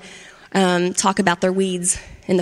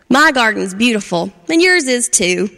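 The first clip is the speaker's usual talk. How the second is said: a bit louder friendly call; calling back cheerfully; 3 dB louder than usual. Acted. Charlie answering Frappy's taunt, cheerful call. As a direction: call back good-naturedly. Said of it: "Charlie laughed and called back".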